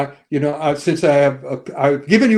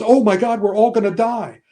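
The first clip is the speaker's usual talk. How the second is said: mock panic; 6 semitones higher than usual. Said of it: "Kumail Nanjiani goes".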